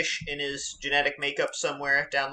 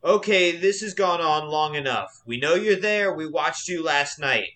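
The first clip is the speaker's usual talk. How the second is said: big booming voice; 3 semitones higher than usual. Acted. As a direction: boom it down the hill. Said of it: "a big booming voice says".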